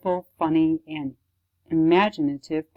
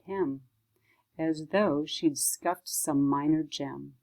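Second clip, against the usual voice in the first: measured, phrase-by-phrase recital; poem reading. Acted. Librarian reading a poem about Earth, measured recital. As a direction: recite it thoughtfully, pausing at each line break.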